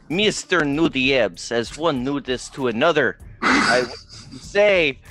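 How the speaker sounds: lightly voiced alien diplomat, slow and high; slow formal envoy. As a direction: speak slowly like a solemn ambassador. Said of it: "Major Tom is going to step forward".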